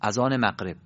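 مغرب in اذان مغرب with hard q, "maqreb"; colloquial Persian qaf. Shown as a demonstration. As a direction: turn the gh of مغرب into a q stop. («مغرب» با قاف به جای غین، «مَقرِب»)

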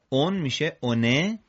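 "on" turning into اونه, "one"; tanween change. Shown as a demonstration. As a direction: add a short "e" to make اونه.

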